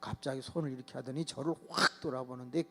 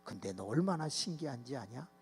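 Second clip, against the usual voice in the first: ordinary talk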